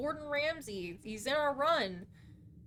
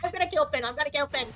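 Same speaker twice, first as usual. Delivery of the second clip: loud, playful angry repeats; mock rage; 5 dB louder, faster than usual. Streamer rants playful threats at teammate Finn. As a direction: rant in mock fury.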